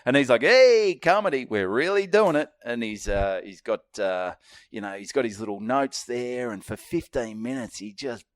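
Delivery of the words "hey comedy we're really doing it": loud high comic voice, imitated; impersonating a comic's distinct voice; Mark Norman impression. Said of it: "He's got a very distinct voice".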